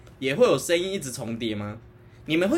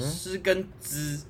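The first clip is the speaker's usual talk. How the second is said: slow careful pronunciation; 6 dB quieter, much slower than usual. Shown as a demonstration. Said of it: "至少可以知道诗跟知哦".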